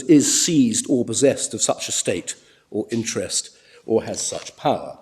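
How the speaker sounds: "is seized or possessed of such estate or interest, or has such power" read slowly and deliberately; slow it down and weigh every word; emphasised phrase. Shown as a demonstration. Counsel reading the statute aloud to the court, slow and weighted. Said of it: "I emphasise these words".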